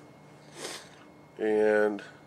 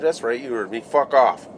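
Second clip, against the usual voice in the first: louder on fuck off, a mock yell; blunt retold telling-off; 3 semitones higher, 6 dB louder than usual. To the superintendent, repeating fuck off, louder and blunt. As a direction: lay the insult on him again, harder.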